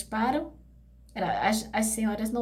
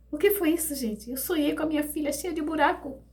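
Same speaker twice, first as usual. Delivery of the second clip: higher, agitated retelling of the shock; pitched-up alarmed voice; shaken disbelief; 5 semitones higher than usual. Retold or imitated. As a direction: gasp out the horror of waking. Waking from nightmare.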